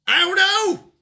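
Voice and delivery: high, loud comic whine; mock wail. Real, not acted. Streamer mock-crying to chat about pronunciation, high wail. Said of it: "exasperated again".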